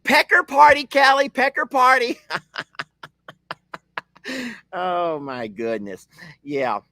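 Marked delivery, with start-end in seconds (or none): 0.0-2.2 high, louder, tickled repetition; giggly high repeat. Real, not acted. Laughing at a viewer's joke, a high tickled repeat. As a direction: savour the silly phrase with delight.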